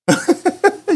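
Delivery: sudden high laugh of disbelief; high burst of laughter. Real, not acted. Preacher laughing at Jesus' hard command, high burst of laughter.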